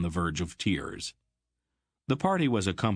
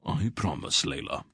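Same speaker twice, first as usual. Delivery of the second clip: grave; 3 semitones lower than usual. A narrator's reading. Old Wolf solemnly promising the queen a visit. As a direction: give your word seriously. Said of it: "Mister Wolf said gravely".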